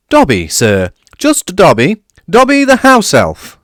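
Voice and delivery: high, eager squeaky elf voice; a small excitable house elf, very high and loud; high-pitched grovelling elf; Dobby the house elf. A narrator's reading. Dobby introduces himself.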